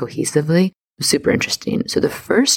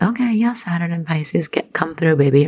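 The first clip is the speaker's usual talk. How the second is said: mock cheering on; 5 semitones higher than usual. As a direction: play-act egging someone on in a high voice. Acted hype reaction cheering Saturn on.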